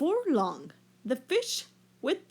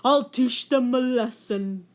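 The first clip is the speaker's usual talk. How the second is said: loud, resentful whale threat; angry whale; 6 dB louder than usual. A narrator's reading. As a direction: swear revenge, louder. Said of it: "he grew very angry".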